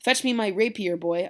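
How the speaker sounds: a hothead calling for his sword; Tybalt's angry order. Acted. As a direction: bark for the rapier. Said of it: "Tybalt says".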